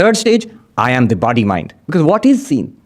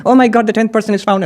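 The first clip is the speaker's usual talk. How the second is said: happy exclaim; 6 semitones higher than usual. Acted. Others find the tenth, happy.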